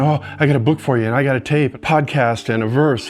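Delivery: fast, eager fixer; mock helpful. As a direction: rattle off the quick fixes. Mocking people's quick fixes.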